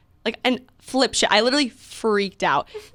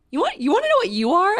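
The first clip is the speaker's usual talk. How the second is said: retold angry retort; 10 semitones higher, faster than usual. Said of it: "I was so angry".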